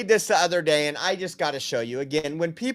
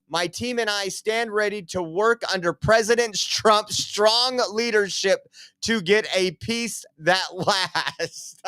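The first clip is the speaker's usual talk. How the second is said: laughing; 2 semitones higher than usual. Real, not acted. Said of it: "I'm just laughing because".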